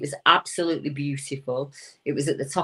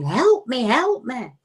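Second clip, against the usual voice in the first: high mock cry for help, pitched up and louder; imitating a girl screaming; 9 semitones higher, 4 dB louder, slower than usual. Retelling the screams heard from the lane at night, high imitated wail. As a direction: wail it like a terrified girl in the dark. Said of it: "a girl screaming".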